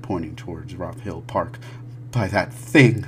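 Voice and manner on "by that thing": frightened accusation. Acted. Frantic father points at park.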